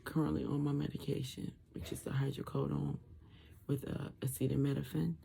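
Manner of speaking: garbled, muffled post-surgery speech. Real, not acted. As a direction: talk through a swollen throat, muffled. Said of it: "feels like I'm talking garbled".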